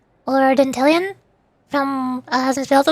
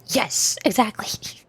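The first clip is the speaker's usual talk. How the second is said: slow, put-on elderly woman; drawn-out granny agreement; old lady voice; 4 semitones lower, 6 dB quieter, slower than usual. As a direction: answer as a doddering old lady. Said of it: "To you old again?".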